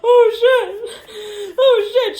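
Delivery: high, loud shocked laughing cry. Real, not acted. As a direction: blurt it out in shock. Shocked by the card.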